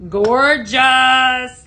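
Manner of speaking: loud, drawn-out gushing praise; admiring exclamation. Real, not acted. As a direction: belt it out in admiration, stretching the word. Admiring product shown to viewers.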